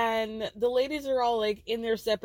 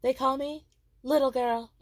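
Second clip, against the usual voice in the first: proud announcement, a touch higher; proud drag name reveal; loud and proud; 3 semitones higher than usual. Retold or imitated. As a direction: announce your stage name with pride. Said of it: "she says loud and proud".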